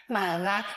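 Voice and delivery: "满了" as mǎ, in a low dipping third tone. Shown as a demonstration. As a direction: dip "满了" low, then let it rise, as mǎ. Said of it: "third tone".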